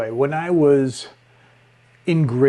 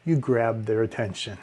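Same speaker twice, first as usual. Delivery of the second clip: soft aside; 4 semitones lower, 6 dB quieter than usual. Shown as a demonstration. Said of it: "say something softly".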